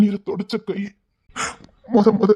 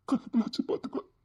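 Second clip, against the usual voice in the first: whispered vow; 3 semitones higher, 11 dB quieter, faster than usual. Acted. Pleading to God tearfully.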